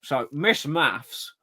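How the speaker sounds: slow, drawn-out chat-show host; milk the name like Alan Partridge. Acted. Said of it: "to be said in a Partridge voice".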